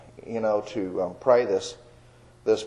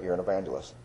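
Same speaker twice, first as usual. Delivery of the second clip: hushed and soft, much softer, like a voice from within; barely above a breath, gentle and inward; still small voice; 4 semitones lower, 9 dB quieter, faster than usual. Retold or imitated. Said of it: "that still small voice in my spirit".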